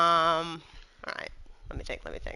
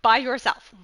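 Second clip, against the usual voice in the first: higher-pitched, condescending question; 4 semitones higher than usual. Acted. Doubting a companion's solo victory, condescending. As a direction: question her feat with open disbelief. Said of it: "So condescending".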